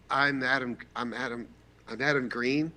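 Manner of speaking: mildly nervous retold introduction. Fan introducing himself to his idol, nervous. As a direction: stumble through your own name, hesitant and repeating. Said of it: "I'm nervous as shit".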